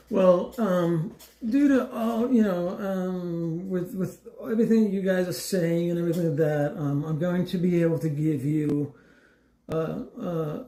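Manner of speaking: mock hesitant official voice; imitating the agent. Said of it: "how did she voice it".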